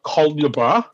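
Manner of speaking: Colubra as COL-yuh-bra, spaced out; mock wrong pronunciation. Shown as a demonstration. Guest rejecting the wrong root of the name, mock mispronunciation. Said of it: "it's not named after".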